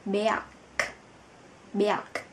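Berg ending in a hard, breathy k; final g as k. Shown as a demonstration. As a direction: say Berg with the g at the end spoken as k. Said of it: "lại phát âm thành K". (phát âm Berg, g cuối thành k)

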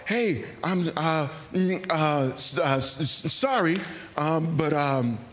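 halting, stammering request with filler sounds; mock nervous stammer; stumbling nervous ask. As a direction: stumble over every word as if scared to ask. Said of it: "stumbling through it".

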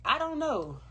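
high, loud tearful wail; crying. Real, not acted. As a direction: sob the words out. Bursts out crying mid-talk.

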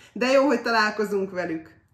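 loud, happy exclamation; excited cry. A narrator's reading. Children hear the fairies are coming, excited cry. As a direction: cheer at the good news. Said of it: "kiáltották a gyerekek".

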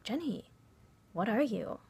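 mildly high-pitched mock friend; white friend's question. Acting out the friend's nosy question.

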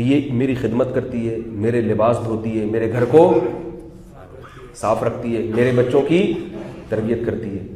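low, soft, measured listing; gentle retold praise with pauses between items; calm appreciation. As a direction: quote a husband patiently counting his wife's merits. Voices Umar calmly praising his wife.

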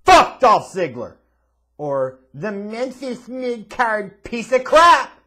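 loud, high, drawn-out announcement; jeering shout. Real, not acted. Host billing a despised wrestler, jeering shout. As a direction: shout the insults slowly like a match billing.

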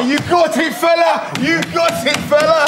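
catchphrase shout. Acted. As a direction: bellow it to the crowd. Guest shouting his catchphrase.

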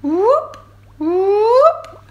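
rising whale calls; whale whoop. Acted. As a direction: call out like a young whale. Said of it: "a very different sound".

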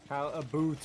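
jokey put-on Canadian accent. Friend giving best Canadian accent on request, mock Canadian. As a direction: say "about" as a mock-Canadian "a boot". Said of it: "Give me your best Canadian accent".

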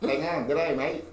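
lightly put-on Australian accent; playful go at an Aussie greeting; softly attempted mock Australian accent. Shown as a demonstration. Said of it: "my great Aussie accent".

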